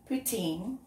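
put-on Poutine. said with an aspirated P, "POO-teen", and a laugh before it; settling on poutine. Shown as a demonstration. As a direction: land on Poutine. with a rise. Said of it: "I don't know how you say it".

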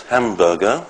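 "hamburger" with main stress on HAM, secondary on BUR; compound stress. Shown as a demonstration. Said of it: "main stress, secondary stress".

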